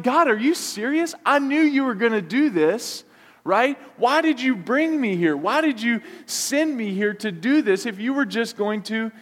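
high, exasperated complaint to God; angry Jonah. Acted. Jonah complaining to God after Nineveh, exasperated and high. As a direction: throw it up at God, fed up. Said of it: "Jonah gets angry at God. Like".

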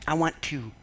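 lightly voiced sly enemy, gloating; a hint of a scheming devil; enemy's voice.

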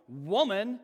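rude "Woman.". Shown as a demonstration. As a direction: bark "Woman." at your mom like an insult. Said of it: "He's not looking at his mom going".

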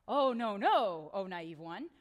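mock pity.

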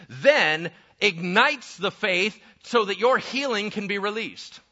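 slow, punched-out key phrases; building pulpit declaration; emphatic preaching. Real, not acted. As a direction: drive each point home with force.

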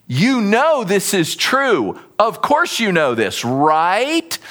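slow, insistent leading question; rhetorical, inviting agreement. Acted. Paul prodding his readers to agree, insistent and rhetorical. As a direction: press for a yes, drawing out "right?". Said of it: "He's inviting them to, to say yes".

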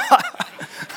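a quick airy laugh, high; soft high chuckle; breathy high laugh. Real, not acted. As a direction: laugh at your own punchline. Laughs at own story.

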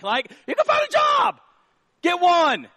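preacher shouting a rebuke at the excuse-making guy; scolding shout. Real, not acted. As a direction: yell the correction at them. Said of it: "preacher scolding young men".

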